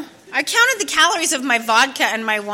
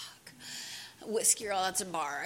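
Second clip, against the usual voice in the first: inner panic; 4 semitones lower, 13 dB quieter, slower than usual. Retold or imitated. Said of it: "thinking to myself".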